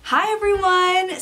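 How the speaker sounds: high, bouncy greeting; exaggerated cartoon intonation. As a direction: pitch the hello way up. Second cheerful greeting.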